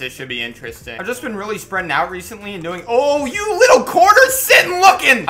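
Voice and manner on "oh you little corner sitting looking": mocking taunt. Real, not acted. Taunting an enemy in game.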